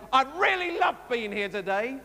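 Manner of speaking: rising, eager and warmly meant; gushing sincere. Shown as a demonstration. Vicar showing the same words mean different things, eager. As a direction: sound like you truly love being here. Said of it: "the same words to mean a completely different thing".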